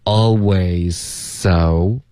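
"Always so" very slowly, alway-so with one s; "Always so" drawn out, no separate z; dropped z. Shown as a demonstration. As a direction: stretch "Always so", merging z into s. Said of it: "所以我们就省这个z".

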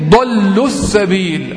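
slow "ضلوا السبيل" as one unit, dallus-sabiil; linked reading. Shown as a demonstration. Teacher repeating how he said it, "ضلوا السبيل" linked as dallus-sabiil. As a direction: shorten the u of "ضلوا" and glide into the s. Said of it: "قالها إزاي؟".

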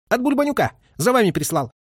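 high, eager, rushed report; hurried and cheerful. A narrator's reading. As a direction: blurt the news out gladly. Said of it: "заговорил Скляр поспешно и тоже от чего-то весело".

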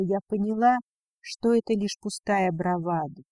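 plain reading voice

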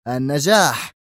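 enraged boss; agitated outburst. Acted. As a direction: lay down the rule furiously. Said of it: "قاطعه دون كورليوني في هياج".

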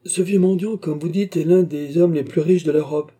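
smiling and animated. A narrator's reading. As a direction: tell it through a smile, voice lifted. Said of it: "dit Trevor en souriant".

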